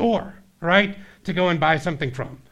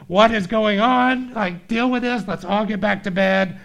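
exasperated wife; 5 semitones higher, 4 dB louder than usual. Retold or imitated. Wife woken by knocking.

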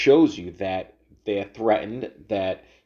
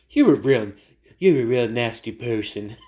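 louder, half-hearted mock impression of a famous politician; a hint of the president, said louder than usual; Trump voice; 4 dB louder than usual. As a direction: throw out the insult in a loud, rough-edged put-on voice. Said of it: "I can't do the Trump voice".

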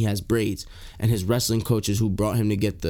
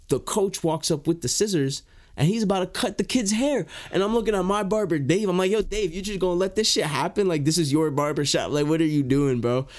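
higher, agitated retelling of the fight; worked-up outrage; 6 semitones higher than usual. Retold or imitated. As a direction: push it up like you're still mad. Confronting barber Dave, retold outrage.

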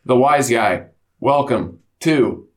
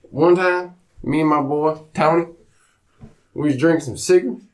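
a hint of a boozy country dad; imitating his pa. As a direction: play the rowdy hick father telling a drinking story. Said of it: "I'm about to start talking like this".

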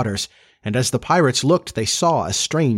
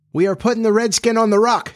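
high-pitched call across the water; pirate deckhand calling out, voice lifted; 11 semitones higher, 3 dB louder, faster than usual. A narrator's reading. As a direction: holler it up high to the captain. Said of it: "Smee called out".

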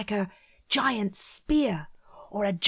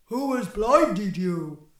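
other Cyclops. Acted. Other Cyclops asks, put-on voice.

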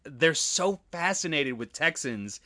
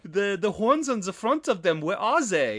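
higher-pitched mock tourist complaint; disappointed European tourist; 5 semitones higher than usual. European visitors looking around downtown Dallas for cowboys, mock disappointment. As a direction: imitate a let-down visitor searching around. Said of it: "it's gotta be so disappointing".

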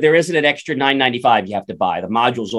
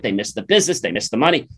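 normal talking voice

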